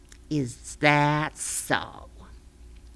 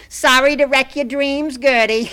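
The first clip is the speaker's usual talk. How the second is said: laughing, higher and louder taunt; mocking laugh; 7 semitones higher, 5 dB louder than usual. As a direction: cackle the apology. Laughing at Gertie's ruined dream.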